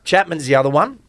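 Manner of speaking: choking on a drink, struggling; coughing through the words. Real, not acted. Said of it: "Sorry, I'm just choking".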